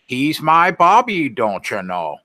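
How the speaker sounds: light mock cartoon mom, high on the first words; a hint of a doting cartoon mother; lightly voiced cartoon mom; imitating Bobby's mom. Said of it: "his mom would talk like that".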